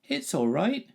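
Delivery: put-on high, far-carrying boyish hail; hailing back. A narrator's reading. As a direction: call it back across the crowd. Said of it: "his friend hailed back".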